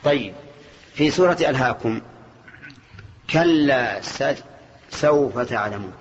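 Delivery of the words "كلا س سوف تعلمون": slow recitation. Shown as a demonstration. Teacher recites a verse from Surat al-Takathur.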